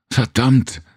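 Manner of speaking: high, sharp curse at herself; frustrated curse. A narrator's reading. Serena losing the poem mid-line, angry curse. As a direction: snap out the curse at forgetting.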